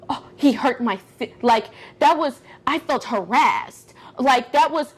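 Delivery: mildly put-on victim voice, slowing on key words; playing hurt, scared. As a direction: act a touch wounded and frightened. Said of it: "I really have to play that".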